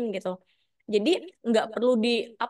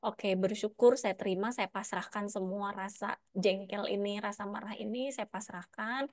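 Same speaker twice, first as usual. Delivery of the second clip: fading much softer into surrender; surrendering the feeling; 7 dB quieter than usual. Pretend. Person releasing their anger in prayerful surrender, fading soft. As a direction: let go of the anger, almost breathing it out. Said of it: "terima sampai akhirnya".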